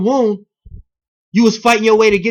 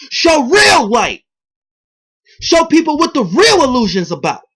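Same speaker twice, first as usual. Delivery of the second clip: preaching shout; 6 semitones higher than usual. Real, not acted. Preaching rant builds to shout.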